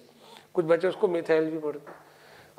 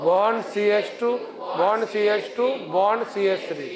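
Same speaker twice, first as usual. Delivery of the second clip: leading class recitation. Shown as a demonstration. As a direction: lead the class to recite in one voice. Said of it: "एक जैसी आवाज में बोल". (एक जैसी आवाज़ में धीरे-धीरे पाठ)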